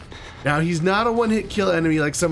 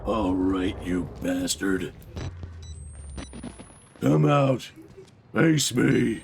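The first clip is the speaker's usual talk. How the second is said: taunting challenge; 6 semitones lower, 4 dB quieter, much slower than usual. Acted. Taunting a game enemy.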